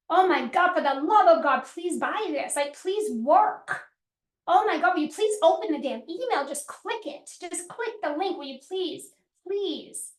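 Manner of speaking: desperate pleading seller; mock desperate pleading; begging. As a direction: beg them to open the email, half whispering at the end. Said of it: "If my energy is like".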